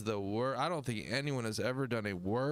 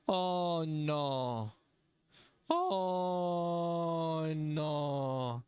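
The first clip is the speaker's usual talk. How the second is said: hammed-up worried voice, a bit higher; mock panic; 4 semitones higher, much slower than usual. Imagining throwing the wrong sign, mock panic. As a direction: play the scared gangbanger. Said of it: "then I'd be like".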